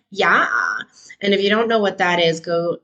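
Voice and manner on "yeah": hint of a Valley girl drawl; lightly mocking Valley girl, rising tone. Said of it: "talking like a Valley girl".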